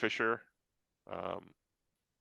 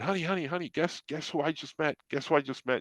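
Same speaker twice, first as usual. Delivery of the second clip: higher, eager, rushed calls of "Honey"; retold excitement; 7 semitones higher than usual. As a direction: burst out with the news, pitched up. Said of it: "she can hear that I was so excited".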